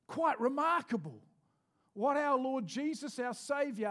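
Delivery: slow, deliberate sermon cadence; preaching. Acted. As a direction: lay each phrase down weightily. Preaching slowly, building.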